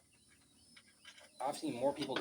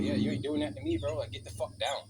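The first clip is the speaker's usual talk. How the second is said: higher, louder mock tough-dog voice; dog's imagined retort, higher and louder; voicing the dog; 5 semitones higher, 5 dB louder than usual. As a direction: talk back as the stubborn bulldog. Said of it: "He's like".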